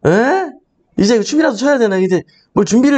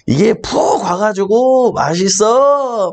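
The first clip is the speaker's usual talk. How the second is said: comedian's mother; 4 semitones higher, much slower than usual. Retold or imitated. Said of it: "막 이러면서 이제 어머니예요".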